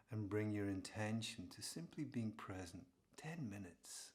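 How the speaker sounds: calm, unhurried meditation teacher; guided meditation. Real, not acted. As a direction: ease listeners gently into awareness. Eases listeners into meditation.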